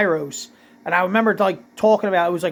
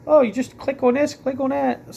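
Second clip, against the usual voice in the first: mock tutorial voice; 6 semitones higher than usual. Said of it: "show you, like".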